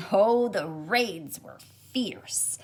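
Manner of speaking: slow, hushed storyteller whisper; dramatic whisper. A narrator's reading. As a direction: breathe it out like a secret battle tale. Dramatic moment in read-aloud.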